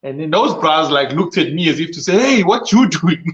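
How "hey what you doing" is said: acted-out challenge, raised pitch, drawn out; indignant challenge. Robber confronting a meddling bystander, mock indignant challenge. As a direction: imitate an affronted robber, higher and slower.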